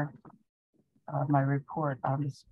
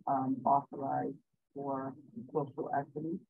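muffled, hard to hear; 3 dB quieter than usual. Real, not acted. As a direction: sounds muffled, like through a cloth. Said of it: "I'm hearing muffled".

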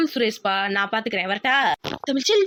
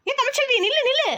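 calling out; 7 semitones higher than usual. Acted. Calls after her to stop.

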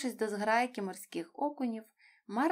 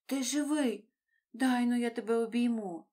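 overjoyed relief; 3 semitones higher, 4 dB louder than usual. A narrator's reading. Marlin hugging found son.

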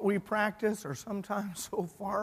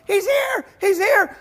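high, loud excited squeal of news; 9 semitones higher, 6 dB louder than usual. Retold or imitated. Rhoda announcing Peter at the door, thrilled shout. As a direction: burst out with it, far above normal pitch. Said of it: "she gets all excited".

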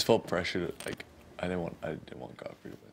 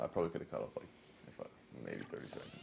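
winded after a run; out of breath; 7 semitones lower, 6 dB quieter, faster than usual. Real, not acted. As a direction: talk while still catching breath. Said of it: "you're, like, out of breath".

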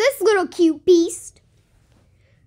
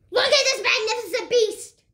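nature documentary; 4 semitones higher than usual. Pretend. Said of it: "Lion King version".

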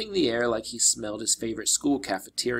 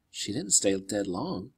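nervous. Acted. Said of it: "trying to keep my voice from quivering".

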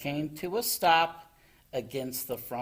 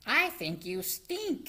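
giggly; 11 semitones higher than usual. A narrator's reading.

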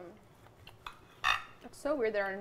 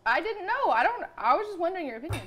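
high, loud defensive rush of words; defensive protest; 8 semitones higher, 6 dB louder than usual. Real, not acted. Defending a question to friends, high and loud. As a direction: protest innocence, pitched way up and louder.

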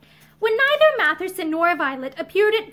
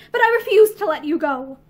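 firm, louder refusal; indignant; 6 dB louder than usual. Acted. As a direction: put your foot down, bitterly. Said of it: "a cry of bitter indignation".

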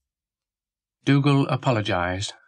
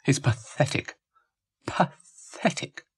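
higher, drawn-out self-reproach; self-disgusted; 4 semitones higher, 3 dB quieter than usual. A narrator's reading. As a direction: repeat it more slowly, dwelling on the shame. Dougal scorns his own wish.

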